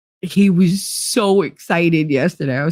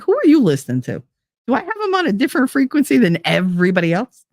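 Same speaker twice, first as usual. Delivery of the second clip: fast, higher mock disbelief; incredulous; 6 semitones higher, faster than usual. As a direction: question everyone's ears, amused. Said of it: "I'm like".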